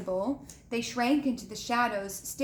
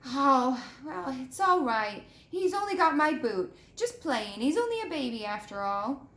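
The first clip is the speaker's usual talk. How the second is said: reassuring gamekeeper; 3 semitones higher than usual. Acted. Hagrid soothing about dragon.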